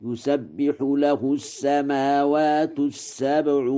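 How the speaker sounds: يسبح begun with ya, yusabbihu; Warsh reading. Shown as a demonstration. Teacher demonstrating to students how Warsh reads, ya in يسبح. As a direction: stress the ya of يسبح. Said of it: "فيقرأ هكذا".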